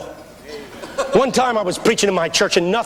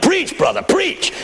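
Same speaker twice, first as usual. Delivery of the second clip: high, punchy call to the preacher; imitated congregant yell; 10 semitones higher, slower than usual. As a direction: urge the preacher on from the pews. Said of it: "Somebody yelled".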